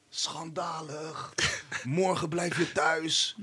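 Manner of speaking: outraged rant, dragged out very slowly. Retell how the man started in on you during the drive, imitating a man's tirade. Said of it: "die man begint aan het tiraden".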